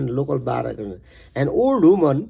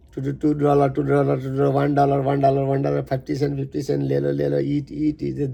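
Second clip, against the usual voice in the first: street vendor calls. Retold or imitated. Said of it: "shouting crinky voice of half Indian accent".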